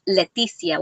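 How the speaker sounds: "Leticia" said the Spanish way; Spanish pronunciation. Shown as a demonstration. Crocheter showing how her name is really pronounced, Spanish accent. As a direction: give the name its Spanish sound. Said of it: "it's really pronounced".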